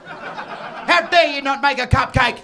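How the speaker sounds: slow, loud indignation; mock outrage. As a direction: draw it out in hammed-up outrage.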